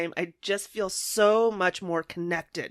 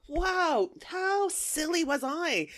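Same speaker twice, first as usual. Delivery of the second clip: self-mocking thought; 7 semitones higher, 5 dB quieter, much slower than usual. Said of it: "and I thought".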